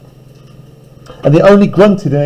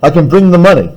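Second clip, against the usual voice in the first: a gasp of realisation, lightly played; mock shocked; 2 semitones higher than usual. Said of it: "And Utterson goes".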